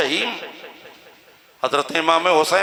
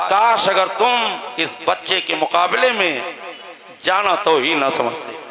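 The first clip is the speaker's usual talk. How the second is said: taunting. Acted. Commander taunts the father about his second son, taunting. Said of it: "फिर तंज किया".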